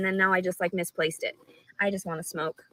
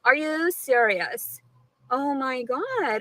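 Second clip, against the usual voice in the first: slow disbelief; 4 semitones higher, much slower than usual. Real, not acted. Shocked at being recorded.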